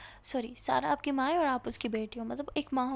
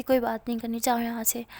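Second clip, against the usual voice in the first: sulking; 6 dB louder than usual. Acted. Sulking angry friend.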